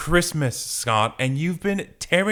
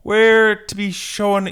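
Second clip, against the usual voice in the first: high-voiced Gene; 10 semitones higher, 9 dB louder, slower than usual. Reading a comic character's line.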